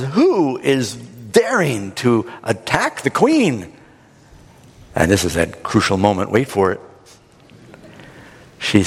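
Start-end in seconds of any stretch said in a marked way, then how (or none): 0.0-3.7 slow, drawn-out indignant demand; mild mock outrage, each word stretched; acted outraged king. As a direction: play a king demanding the culprit, slowly.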